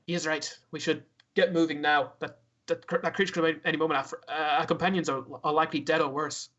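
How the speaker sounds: drow with an unintended Irish lilt; Irish accent. Acted. Drow backing the call to leave, Irish accent. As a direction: speak measured lines in a loose Irish accent. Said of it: "he gets an Irish accent".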